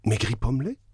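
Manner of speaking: «pommelés» montant, stupéfaite; incrédulité indignée; cri de stupeur. Acted. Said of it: "s'écria madame Danglars". (la baronne découvre ses chevaux, stupéfaite)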